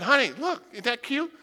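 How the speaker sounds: lightly voiced cooing neighbor; a hint of a gushing neighbor, talking down; mocking the neighbor's sugary pity. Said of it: "the brand new neighbor moving in and said".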